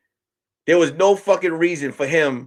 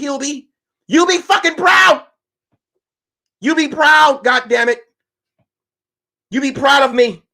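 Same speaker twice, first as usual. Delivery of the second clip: mock wife pep talk. Wife voiced scolding Hubie.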